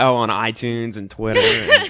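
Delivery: slow list with laughter; slow laughing. Shown as a demonstration. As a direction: drag it out while laughing. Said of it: "One more time".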